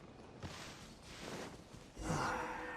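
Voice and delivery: long quiet exhale; soft sigh. Acted. Seeing what lies ahead, long sigh. Finding more machines ahead.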